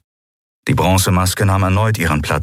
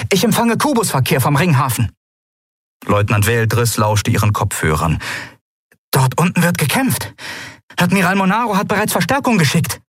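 meldende Leutnantin; 9 semitones higher than usual. Acted.

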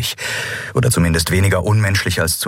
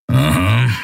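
verächtliches Knurren. Acted. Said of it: "knurrte Kero verächtlich".

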